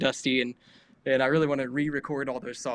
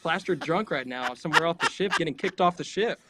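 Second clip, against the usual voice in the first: higher-pitched, incredulous questioning; mock baffled passenger; 4 semitones higher than usual. Passenger finding the performer eating salad, mock incredulous. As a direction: imitate a stunned party guest.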